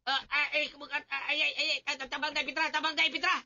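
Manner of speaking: straining groans. Acted. Calling Pitra for help under heavy tools, straining. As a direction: groan and call out as the load slips.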